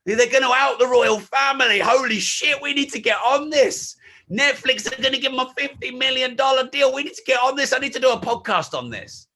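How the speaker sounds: mock-urgent, high-pitched excitement; excited breaking-news reaction. Entrepreneur reacting to a big royal news story, mock-excited. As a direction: act out a frantic scramble to jump on the story.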